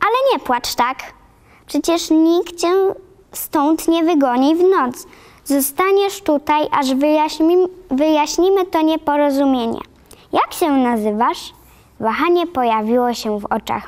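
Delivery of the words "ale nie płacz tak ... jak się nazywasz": softened reassurance. Acted. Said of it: "łagodząc jej surową minę".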